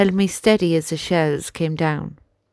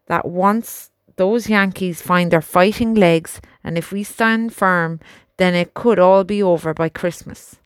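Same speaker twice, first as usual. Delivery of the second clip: earnest young soldier, lightly voiced; a country lad talking to his horse. Albert talks to his horse.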